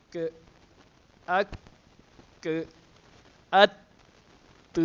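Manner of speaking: ک and ات released with breath running on; breathy release. Shown as a demonstration. Teacher showing hams to students, ک and ات with breath kept flowing. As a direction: let the air flow out after ک. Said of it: "سانس کو ہم جاری رکھ لیتے ہیں".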